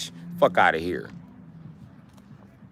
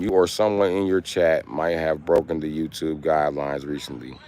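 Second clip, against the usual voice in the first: robot warning voice; 8 semitones lower, 5 dB quieter, slower than usual. Acted. Reading YouTube warning aloud.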